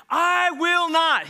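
loud vow. Acted. Peter vowing to Jesus, loud slow insistence. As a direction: swear it fiercely. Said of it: "always the loudest voice".

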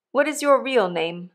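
plain reading voice

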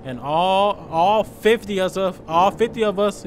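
tripping over "all fifty of us", repeating it; stuttering. Real, not acted. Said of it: "yeah, I'm stuttering".

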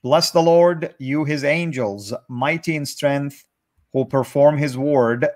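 measured, deliberate scripture read-aloud; careful Bible reading with pauses; psalm reading. Real, not acted. Reads psalm aloud to the group.

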